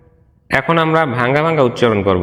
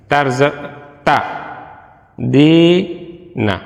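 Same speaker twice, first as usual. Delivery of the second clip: slow, each Quranic syllable said apart with pauses; slower than usual. Shown as a demonstration. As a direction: break the verse into separate syllables. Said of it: "ভাঙ্গা ভাঙ্গা রীতিতে". (ভাঙ্গা ভাঙ্গা, ধীরে আলাদা আলাদা অক্ষরে)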